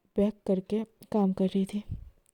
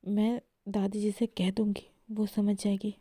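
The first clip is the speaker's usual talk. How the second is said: hushed reply; 6 dB quieter than usual. Acted. Esha answers Mahi dismissively.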